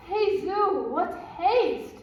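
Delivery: hammed-up breathless protest; out of breath. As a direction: puff as if winded from running. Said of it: "I am out of breath".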